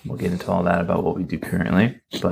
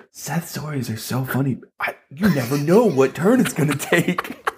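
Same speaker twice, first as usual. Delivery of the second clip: amused retold praise; 5 semitones higher, slower than usual. Retelling wife's amused praise.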